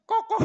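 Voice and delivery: high, loud koko; chicken cluck. Shown as a demonstration. Preacher clucks like a chicken for the congregation, high and loud. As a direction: cluck like a hen.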